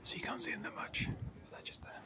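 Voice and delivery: hushed whisper so the gorillas aren't disturbed; library whisper. Real, not acted. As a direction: keep it down, barely voiced. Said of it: "I'm just whispering 'cause it has to be quiet".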